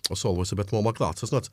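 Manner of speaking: North Walian accent. Shown as a demonstration. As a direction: demonstrate a North Wales accent. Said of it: "are North Walian anyway".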